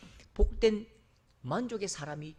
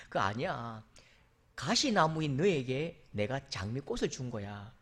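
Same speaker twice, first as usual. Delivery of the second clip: lightly voiced God, lower and slow, chuckling; amused God; 4 semitones lower, slower than usual. God laughing as he answers the complaining rose, slow.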